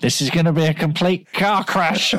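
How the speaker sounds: put-on inner saboteur, rising in pitch; voice of self-sabotage. Self-sabotage predicting disaster to Mark, mock-menacing inner voice. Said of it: "This is the voice of self-sabotage".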